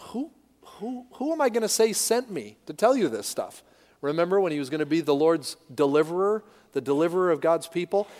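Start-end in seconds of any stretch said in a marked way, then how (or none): 0.1-3.6 lightly voiced hesitant Moses, higher; a hint of Moses stammering in doubt; understated flustered Moses; mild Moses. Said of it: "Moses was saying to God".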